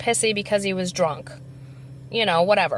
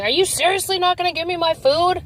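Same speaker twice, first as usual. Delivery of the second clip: raised, higher-pitched mock outrage; mimicked drunk yell; 8 semitones higher than usual. Retelling the drunk customer berating the cashier, mock angry yell. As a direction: imitate a drunk man's indignant yelling at the counter.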